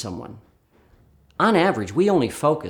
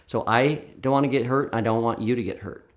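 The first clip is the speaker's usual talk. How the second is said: calm, even reassurance. Shown as a demonstration. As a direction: reassure a nervous volunteer calmly. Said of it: "I say it in a calm voice".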